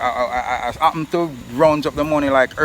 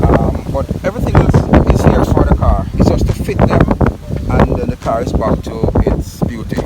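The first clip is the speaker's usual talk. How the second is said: shouting over wind; 10 dB louder than usual. Real, not acted. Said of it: "sorry about the wind noise".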